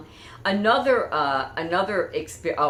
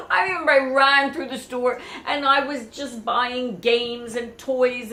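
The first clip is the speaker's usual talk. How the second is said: laughing; 7 semitones higher, 4 dB louder than usual. Real, not acted. Excited memory with laughter.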